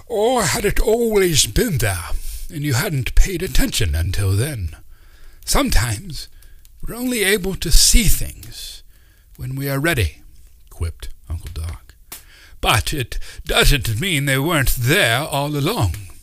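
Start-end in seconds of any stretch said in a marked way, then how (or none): 0.1-10.2 put-on high, louder eccentric old man musing; wise old uncle. Uncle Doc's voice. 12.6-16.1 put-on high, louder eccentric old man musing; wise old uncle. Uncle Doc's voice.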